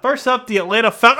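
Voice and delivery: choking mid-word; coughing and sputtering on a drink. Real, not acted. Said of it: "Sorry, just choking".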